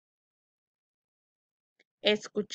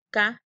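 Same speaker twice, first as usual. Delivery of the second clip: "Ca-ba-yo" with a clear break between syllables; syllable split; 5 dB louder than usual. Shown as a demonstration. Teacher splitting caballo into syllables. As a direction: chop "Ca-ba-yo" into three beats. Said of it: "separar en sílabas".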